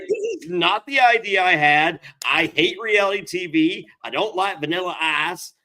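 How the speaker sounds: mock-furious complaint; Ty Murray. Bull rider griping about reality TV casting, imitated fury. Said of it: "Ty Murray's furious".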